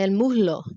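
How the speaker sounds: el muslo with the S softened to a breath, like muhlo; Puerto Rican muslo. Shown as a demonstration. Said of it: "in Puerto Rico más more sound like".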